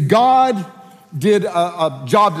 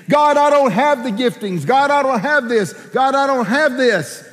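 anxious protest; 6 semitones higher than usual. Acted. Acted protest to God.

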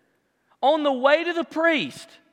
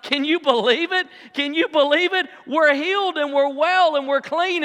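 mild mock screaming; 4 semitones higher than usual. Healed lepers marvelling to each other, mildly acted excitement. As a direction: imitate overjoyed cries, held short of screaming. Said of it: "they start screaming".

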